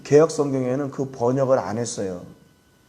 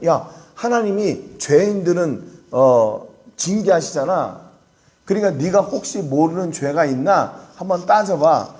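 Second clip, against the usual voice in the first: imitating a friend pressing his case, pitched higher; 다그치는 친구; 4 semitones higher, 3 dB louder than usual. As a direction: press the point like an accusing friend. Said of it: "이렇게 욥을 다그칩니다". (다그치듯 높은 목소리로 따지는 친구 흉내)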